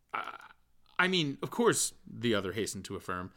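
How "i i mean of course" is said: higher, louder quick backtrack; hasty correction. A narrator's reading. Bloom hastily corrects himself to Stephen, high. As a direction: hurry to smooth it over.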